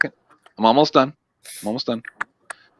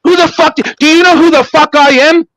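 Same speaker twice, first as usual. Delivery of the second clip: furious yell; 4 semitones higher than usual. Real, not acted. Panel host yelling at a guest, furious and raised. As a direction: bellow it at her as a threat.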